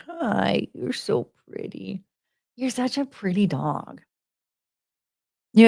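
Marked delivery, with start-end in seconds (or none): 0.1-4.0 softer, slow fond murmur; hushed praise for a pretty dog; soft cooing. Real, not acted.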